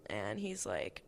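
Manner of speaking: breathy whispered aside. Real, not acted. Telling listeners about her teacher, in a whisper. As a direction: drop to a whisper before the quote.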